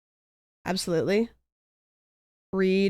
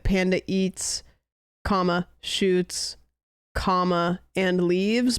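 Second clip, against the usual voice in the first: "Panda eats", "comma", "shoots", "comma", said slowly and spaced out; slow, with spoken commas; slower than usual. Shown as a demonstration. Explaining the Oxford comma, slow and spaced out. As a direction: space out each part and say "comma" aloud. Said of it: "you could do, like".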